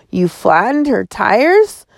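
slow, stern, disbelieving mother; stern mother mode. Acted. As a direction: draw it out like a shocked parent. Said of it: "She flipped into mother mode".

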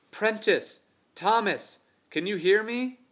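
high, loud call back to friends. Acted. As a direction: shout back to the others. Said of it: "James looked back and called".

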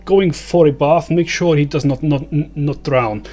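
a hint of a fussy goblin giving orders. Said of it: "the goblin sort of says".

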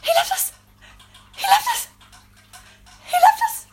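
high, loud wailing cry; movie character impression. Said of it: "so my impressions round is".

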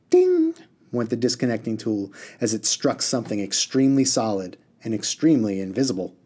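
lively read-aloud with character voices; story reading. A narrator's reading. Teacher reading a novel aloud to students, lively storytelling voice. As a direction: read the chapter to the class like a storyteller.

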